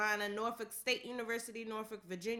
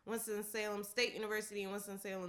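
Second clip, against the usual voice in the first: ordinary talk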